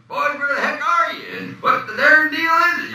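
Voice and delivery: loud, very high Southern holler; copied Kentucky accent. Retold or imitated. Acting his lines like uncle's tape, broad Kentucky accent. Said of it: "I just listened to the tape recorder".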